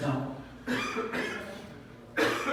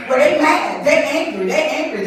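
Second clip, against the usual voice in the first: mock anger; 4 semitones higher, 5 dB louder than usual. Voicing angry women.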